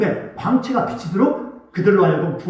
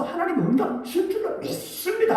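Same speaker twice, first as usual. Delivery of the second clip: soft believing prayer; 10 semitones higher, 6 dB quieter than usual. Acted. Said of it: "하고".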